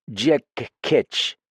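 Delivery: frightened foreign woman confiding in a friend; lightly French-tinged voice, uneasy and pleading; accented woman character. Acted. Same character voice.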